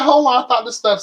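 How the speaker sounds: high, loud double take; startled. Retold or imitated. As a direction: catch the price like a shock. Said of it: "And I'm like".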